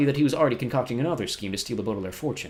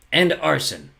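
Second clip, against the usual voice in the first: cheeky higher interjection; piped up; 6 semitones higher, 6 dB louder, much slower than usual. A narrator's reading. Olaf adds a crime to Poe's list, piping up. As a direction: chip in smugly. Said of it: "Count Olaf piped up".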